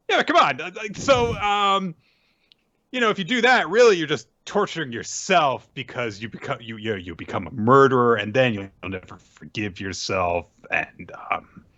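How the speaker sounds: lightly voiced sleazy coward; whiny villain plea. S0 voicing Orochi pleading.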